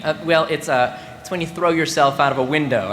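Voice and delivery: understated, plain explanation; matter-of-fact. Acted. Student defining a word for a friend, matter-of-fact. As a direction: explain it casually, with small hesitations. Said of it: "I said very matter-of-factly".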